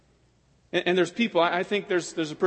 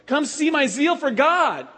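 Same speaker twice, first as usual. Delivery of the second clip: fervent proclamation; 6 semitones higher, 5 dB louder than usual. Acted. Preaching climax.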